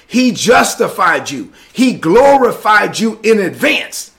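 slow, deliberate teaching voice; careful unhurried voice. Shown as a demonstration. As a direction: spell it out word by word. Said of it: "let me say this slowly so you can get it".

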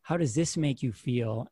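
tender question to her son; gentle mother asking. Retold or imitated. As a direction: coax the child to speak. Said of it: "my mother would turn to me and say".

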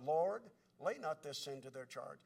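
low, soft recalled plea; remembered prayer. Retold or imitated. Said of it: "Thinking of Stephen's prayer".

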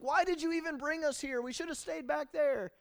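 high, loud whiny grumble; whining complaint. Retold or imitated. Israelites grumbling to God, whining. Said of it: "what does that sound like?".

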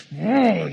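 a loud guttural grunt; annoyed growl. Retold or imitated. Jesus, voiced by the pastor, groaning in annoyance. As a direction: grunt like it bugs you. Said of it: "and he's".

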